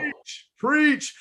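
high, loud call of preach; a quick, high amen-style shout; excited cheer. Real, not acted. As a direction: cheer him on like in church. Cheering the host's point.

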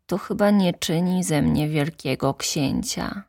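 put-on high childlike voice, falling sad; sad little prince. The prince realizes his rose is ordinary, high and sad. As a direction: lament like a disappointed child.

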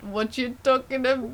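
attempted Australian accent. Shown as a demonstration. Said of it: "like, an Australian accent?".

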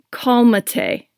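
lightly mocking white girl Spanish, calmate; white girl accent. Mocking the stranger who told her to calm down, lightly mocking gringo Spanish. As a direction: say calmate with a flat gringo accent, kahl-mah-tay. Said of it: "in a big white girl accent".

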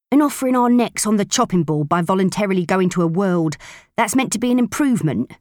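mocking, rising rough retort; sarcastic gruff woman. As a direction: scoff at the whole idea. Proser voiced, sarcastic.

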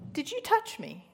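a hint of the sick mother asking; mom's puzzled question. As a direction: imitate her mother waking, puzzled. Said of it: "she goes".

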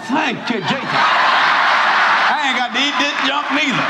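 a lightly voiced dog thanking Jesus; grateful dog. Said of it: "the dog in the corner going".

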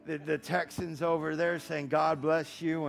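put-on Texan American accent. Shown as a demonstration. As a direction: talk like a preacher visiting Texas, American accent. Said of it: "this is how I would speak to the".

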